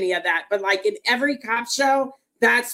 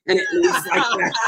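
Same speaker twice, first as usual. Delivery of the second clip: words lost in a high, breathy laugh. Real, not acted. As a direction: laugh through the punchline. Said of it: "laughing at her own joke".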